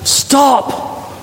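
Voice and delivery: high whispered stop; breathy stop. A narrator's reading. Jesus pleading from heaven, whispered stop. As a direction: breathe the word as an urgent plea. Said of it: "Jesus cries out from heaven".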